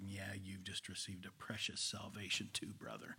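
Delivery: soft whispered awe, copying him; echoed hushed tone. Retold or imitated. Preacher answering the old man, in a hushed whisper. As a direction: mirror his hushed reverence in a whisper. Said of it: "I echoed his tone of voice".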